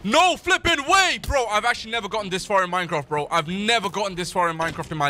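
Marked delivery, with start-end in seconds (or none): 0.0-1.2 slow, loud gasp of disbelief; can't believe he got this far. Real, not acted. Streamer amazed at reaching the End, gasping disbelief.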